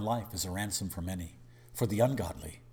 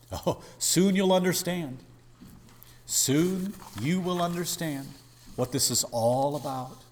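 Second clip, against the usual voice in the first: higher, louder, earnest pleading Jesus; Jesus speaking; 5 semitones higher, 5 dB louder than usual. Acted. Preacher voicing Jesus answering Peter, earnest and raised. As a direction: gently insist he will understand.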